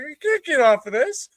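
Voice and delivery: high, helpless mock female voice; imitating girlfriend. Girlfriend stuck in the van, high helpless imitation.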